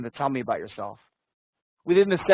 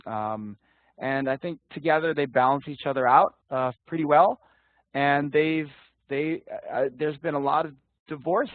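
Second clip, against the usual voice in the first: stiff memorized answer. Shown as a demonstration. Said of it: "the stiff one, everything wrong".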